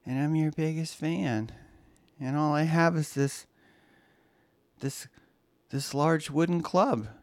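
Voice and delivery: a hint of a creepy fan, lingering pauses; creepy obsessed fan. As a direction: play the unhinged fan cooing at the trapped writer. Improvised Misery-style fan monologue.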